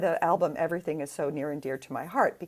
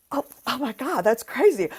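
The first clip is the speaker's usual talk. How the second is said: put-on tipsy drunk; 4 semitones higher, 4 dB louder than usual. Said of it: "he's completely drunk".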